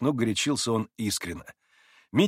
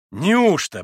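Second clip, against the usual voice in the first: higher, louder astonished question; 7 semitones higher, 7 dB louder than usual. A narrator's reading. Mitya turns to Maximov, astonished. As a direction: gasp in amazement. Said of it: "выразив необыкновенное изумление".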